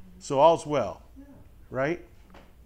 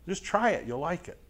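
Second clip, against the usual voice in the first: Mikey ad quote; 2 semitones higher than usual. Retold or imitated. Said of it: "Mikey says".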